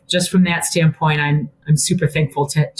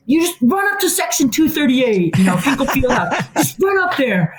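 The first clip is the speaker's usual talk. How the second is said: retold coach's order; 8 semitones higher than usual. Retelling silly order to player.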